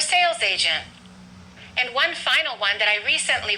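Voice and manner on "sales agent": "sales" stressed, "agent" less prominent; stress on first word. Shown as a demonstration. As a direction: punch "sales" in the compound "sales agent". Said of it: "we stress the first word".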